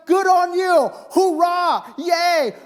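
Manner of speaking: mock cheering. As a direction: cheer them on like a cartoon fan. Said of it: "excited for you".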